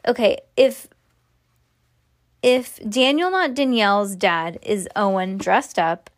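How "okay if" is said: ordinary delivery, nothing marked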